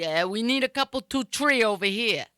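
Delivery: put-on Rhode Island accent, TREE for three; Woonsocket accent. John ordering at the bar, Woonsocket Rhode Island accent. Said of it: "a whole different way they pronounce stuff".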